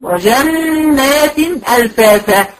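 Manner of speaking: وجنات ألفافا recited very slowly, the doubled nun held; slow recitation demo. Shown as a demonstration. Teacher slowly reciting the example for her students. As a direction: stretch وجنات ألفافا out for learners. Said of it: "يبقى أنا هقول وجنات".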